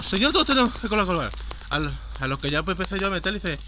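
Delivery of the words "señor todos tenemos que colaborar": loud, high, fast imitation of a pushy woman; cocky bullying tone. Demonstrating how the volunteer lectured the old lady, loud cocky tone. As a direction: rap it out loudly, imitating an overbearing volunteer. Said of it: "pero con este tono".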